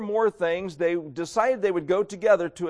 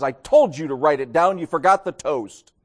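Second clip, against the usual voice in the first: disgusted; 5 dB louder than usual. Acted. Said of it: "She looks at him with disgust".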